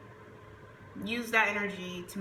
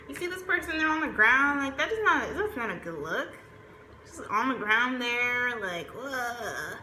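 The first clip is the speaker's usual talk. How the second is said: higher-pitched mock voice of a fed-up partner; mocking complaint; 4 semitones higher than usual. Partner acting fed up about the other, high mock voice. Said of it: "You're just gonna be like".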